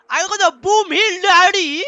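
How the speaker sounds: high, loud, stretched-out crowing; elated high-pitched shout; excited boast. Real, not acted. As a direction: crow it slowly in triumph. Celebrating a new weapon.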